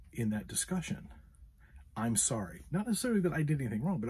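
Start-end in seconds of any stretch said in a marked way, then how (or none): 1.9-2.6 demonstrating a simple, heartfelt sorry; understated, earnest apology; sincere apology. Shown as a demonstration. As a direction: offer measured sympathy. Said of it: "start off with a sincere apology".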